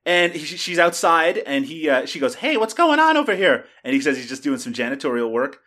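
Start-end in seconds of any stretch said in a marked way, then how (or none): 2.4-3.6 higher-pitched quoted call; retold casual greeting. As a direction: call it out as the character. Quoting the film character's greeting.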